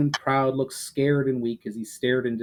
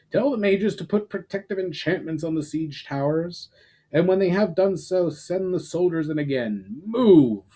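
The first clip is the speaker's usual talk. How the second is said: shouted orders; 6 semitones higher than usual. A narrator's reading. Commander ordering his army to regroup, shouting. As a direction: keep barking orders, finish with a sharp Move. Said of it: "he shouted".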